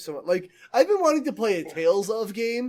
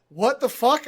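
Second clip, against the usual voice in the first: louder, higher mock exasperation; annoyed game master; 6 semitones higher, 5 dB louder, slower than usual. Player imitating the DM hearing a silly plan, mock exasperation. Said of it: "gets so fucking annoyed".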